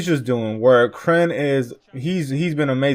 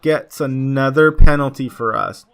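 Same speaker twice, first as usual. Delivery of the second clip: retold cheer; 4 dB louder, slower than usual. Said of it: "I was like".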